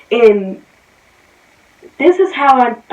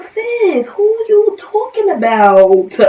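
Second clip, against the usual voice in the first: confrontational; 11 semitones higher, 5 dB louder, slower than usual. Retold or imitated. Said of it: "I commented under it like".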